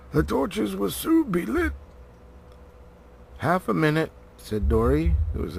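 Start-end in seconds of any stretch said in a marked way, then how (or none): 0.1-1.7 urgent warning. A narrator's reading. Gandalf warning them. 3.4-4.1 breathless plea. A narrator's reading. Dori asking to wait.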